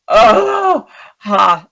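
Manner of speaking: real emotion breaking through for a moment; choked-up cry. Real, not acted. Telling the host about the cold new boss, a real choked cry.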